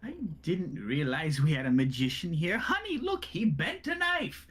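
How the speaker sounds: mocking noble. NPC mocks Thrud's broken knife.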